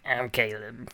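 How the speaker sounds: thrown voice. Pretend. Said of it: "throw our voices".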